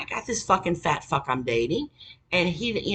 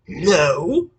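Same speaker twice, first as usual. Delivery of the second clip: mock curt refusal; 7 dB louder than usual. Boyfriend's blunt refusal.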